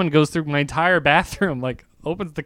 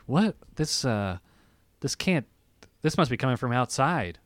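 hushed disbelief; 5 semitones lower, 9 dB quieter than usual. Retold or imitated. Alarmed at strange voice.

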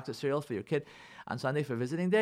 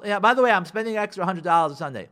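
louder, offhand declaration; brusque announcement; 3 semitones higher, 5 dB louder than usual. Acted. Wife informing her husband of spending, brusque and controlling. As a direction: announce it as already decided. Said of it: "we don't speak to our husband like that".

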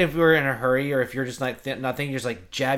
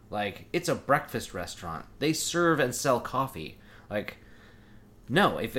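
audible rant. Retold or imitated. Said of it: "I just started talking audibly".

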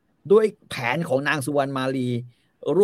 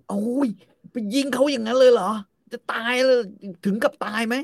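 mock dismay; 9 semitones higher than usual. Phra Aphai acted shocked.

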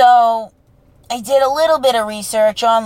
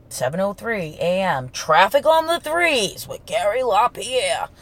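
lightly voiced old radio newsman; a hint of a morning news read; Gary LaPierre. Recalling the childhood Boston radio forecast, a light newscaster read. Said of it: "Gary LaPierre on W B Z News".

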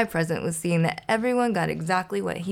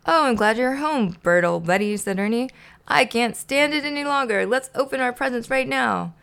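higher-pitched, eager friend; a touch of childlike impatience; mild eager excitement; 6 semitones higher than usual. Acted. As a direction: burst to get to the presents. Eager to open presents.

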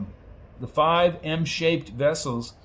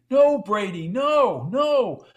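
higher and higher insistent no; shouting no; 8 semitones higher, much slower than usual. A narrator's reading. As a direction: shout him down, rising each time. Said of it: "she shouted and slapped his face".

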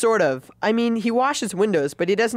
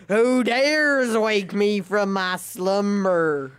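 grinding stone statue; much slower than usual. Acted. Sleeper woken on a park bench.

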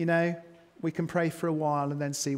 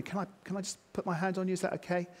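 soft asking; 6 dB quieter, faster than usual. Shown as a demonstration. Gentle asking demo.

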